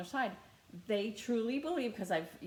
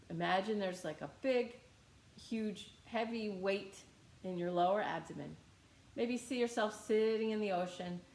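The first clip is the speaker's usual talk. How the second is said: gently lowered guiding voice; guided relaxation; 2 semitones lower than usual. Real, not acted. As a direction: guide listeners to settle into the body. Leads a relaxation exercise.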